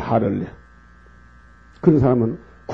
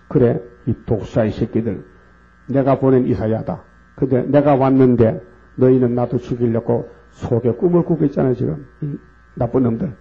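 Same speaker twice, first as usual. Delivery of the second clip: Jesus denouncing. Retold or imitated. Preacher voicing Jesus crying woe to the hypocrites, denouncing. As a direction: thunder the woes at the hypocrites, rising to a shout. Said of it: "일곱 번 하를 외쳤어요".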